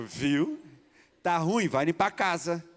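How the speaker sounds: teasing line said through a laugh; laughing tease. Retold or imitated. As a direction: tease him with a laugh, as if to her husband. Teasing retold sister's nudge.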